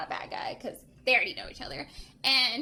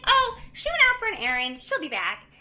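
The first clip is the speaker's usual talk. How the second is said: imitated child; 6 semitones higher than usual. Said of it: "And she's like".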